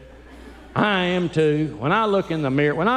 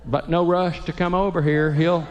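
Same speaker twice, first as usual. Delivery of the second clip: deadpan wife; slower than usual. Retold or imitated. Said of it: "she'll call the funeral director and say".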